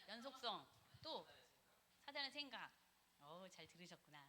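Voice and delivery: ordinary talk, nothing marked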